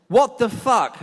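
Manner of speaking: sudden loud, high "What the fuck?"; shocked outburst. Retold or imitated. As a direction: blurt it out in shock. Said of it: "And he said".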